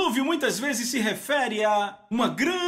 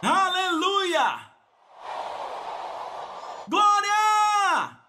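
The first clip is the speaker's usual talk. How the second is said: full-force shout; 12 semitones higher, much slower than usual. Real, not acted. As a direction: rouse the crowd, shouting praise. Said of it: "Alguém grite glória!".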